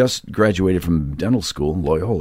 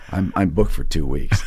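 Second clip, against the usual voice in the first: laughing; 3 semitones higher than usual. Retold or imitated. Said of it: "I said".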